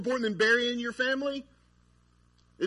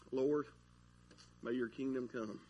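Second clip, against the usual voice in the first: soft, low imagined prayer; hushed mock prayer; 7 semitones lower, 9 dB quieter than usual. Someone waking on Mother's Day to pray, acted hushed. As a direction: drop low and pray it quietly.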